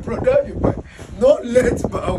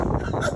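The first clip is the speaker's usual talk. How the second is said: very high, squealing laugh; high-pitched laugh; 3 dB quieter than usual. Real, not acted. Reacting to brother's wife video, high laugh.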